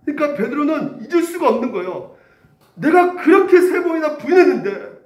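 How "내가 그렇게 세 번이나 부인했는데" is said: high, loud, overwhelmed cry; emotional outburst. Acted. Peter remembering his denial, crying out in awe. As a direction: pour out your guilt and awe.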